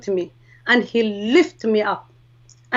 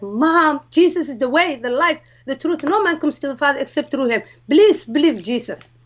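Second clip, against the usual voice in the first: retold urgent preaching, lightly pressed; mildly insistent acted-out sermon; preaching to mom; 2 semitones higher than usual. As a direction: plead with your mother to believe. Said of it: "me preaching my mom".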